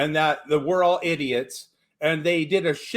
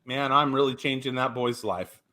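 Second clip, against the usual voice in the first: lower, softer smug voice; a self-satisfied mutter, lightly voiced; stingy client patting himself on the back; smug tipper; 6 semitones lower, 3 dB quieter than usual. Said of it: "and think".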